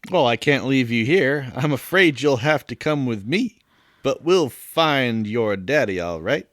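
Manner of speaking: put-on Southern gentleman accent. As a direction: reassure as a Southern gentleman, slowing toward the end. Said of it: "Kind of a southern gentleman".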